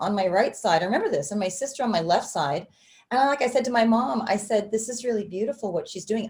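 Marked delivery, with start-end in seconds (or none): 4.7-6.3 hushed, confiding stage half-whisper. Retelling words said during a church service to mom: retelling a half-whisper. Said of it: "I whispered it to my mom".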